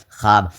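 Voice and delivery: teacher's clear خواب, pronounced "khaab"; silent vao. Shown as a demonstration. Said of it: "یہاں واو جو ہے پڑھا نہیں جا رہا ہے".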